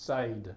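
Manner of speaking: SAID with a long "ay", like "sayd"; common mispronunciation. Shown as a demonstration. Tutor showing how people often misread "said", mispronounced. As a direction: say "said" to rhyme with "made". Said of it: "people often say".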